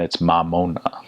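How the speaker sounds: slow "Mamona" with wide open A's and O's; open Samoan vowels. Shown as a demonstration. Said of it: "open their mouths a little bit wider".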